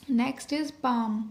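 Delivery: very slow, each word stretched out; slow dictation. Shown as a demonstration. Teacher dictating a word to shorthand students, very slowly. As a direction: spell out the next word for the class, slowly. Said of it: "teacher dictating next word".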